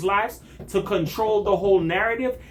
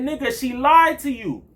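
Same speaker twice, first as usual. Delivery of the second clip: raised, higher indignant retort; heated, higher-pitched retelling; retold outburst; 5 semitones higher than usual. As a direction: push back hard at the liar. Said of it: "I said".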